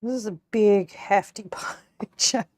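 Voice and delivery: whispered through a laugh. Real, not acted. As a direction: giggle it under your breath. Laughing at the big pie.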